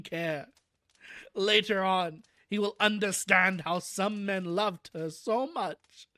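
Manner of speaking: a hint of the wise old doctor; lightly voiced Van Helsing. Van Helsing speaking with the boy on his knee, slow and tender.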